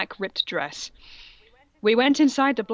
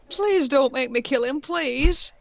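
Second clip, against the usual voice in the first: begging; 4 semitones higher, slower than usual. Acted. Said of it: "I begged".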